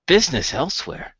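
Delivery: indignant father throwing the words back; incredulous echo. Acted. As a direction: repeat it as an offended question. Father echoes son's threat, offended.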